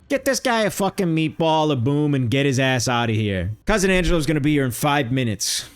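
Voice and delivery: lightly voiced Italian-American tough talk; a hint of a bossy manager with a bad Italian accent; Big Justice impression. Ordering mods to hand out booms, mock Italian manager. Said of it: "this is me if I was Big Justice".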